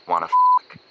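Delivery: high, loud cut-off squeak; a hammed-up high squeal. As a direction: let the word jump up and break off. Pickup line cut off.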